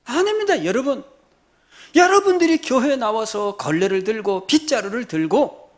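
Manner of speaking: loud, high, impassioned challenge; forceful pulpit rebuke and exhortation; full-force preaching. Real, not acted. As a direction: confront the congregation at full voice.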